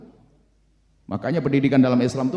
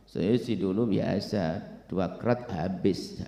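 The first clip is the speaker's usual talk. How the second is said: boastful ex-drinker; 10 semitones lower, 6 dB quieter, much slower than usual. Acted.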